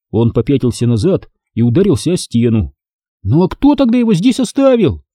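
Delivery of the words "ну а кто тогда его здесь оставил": high, cocky retort thrown back; defiant challenge. Acted. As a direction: dare him to answer. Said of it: "С вызовом бросил он".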